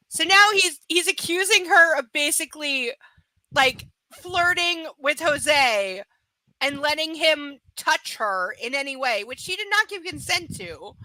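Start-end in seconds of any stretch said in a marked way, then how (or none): 0.1-9.2 outraged. Real, not acted. Outraged commentary on the book.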